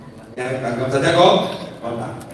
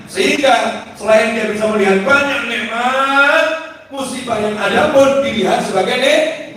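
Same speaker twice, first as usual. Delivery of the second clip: raised preaching delivery; 4 semitones higher than usual. Real, not acted. Preacher teaching a crowd about blessings in calamity, raised preaching. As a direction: preach it with rising phrase ends.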